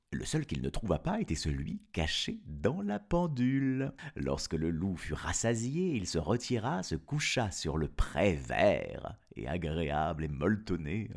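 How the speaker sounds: put-on storyteller reading to children; story narration. Narrator telling of the wolf's trick, story narration. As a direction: tell it as a fairy tale, with lilting phrases.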